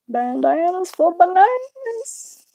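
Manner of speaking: slow, high redneck twang, drawn out; a drawn-out playful redneck drawl; redneck accent. Pretend. Streamer pitching a silly bandana business, redneck accent. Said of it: "I just went all redneck".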